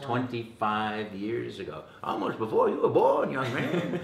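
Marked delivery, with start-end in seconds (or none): 2.0-4.0 playful teasing. Acted. Teasing young interviewer.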